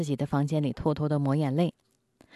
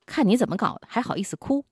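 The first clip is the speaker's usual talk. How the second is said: mock rebuke; 6 semitones higher than usual. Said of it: "有的是斥责".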